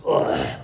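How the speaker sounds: low, guttural disgusted ugh; mock retch. Preacher sickened by book hype, pretend retch. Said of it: "Do I need to vomit".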